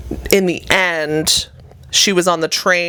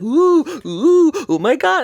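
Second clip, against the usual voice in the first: high, hammed-up nervous passengers; mock scared gasp; 8 semitones higher, 3 dB louder than usual. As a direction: play the nervous passengers, half joking.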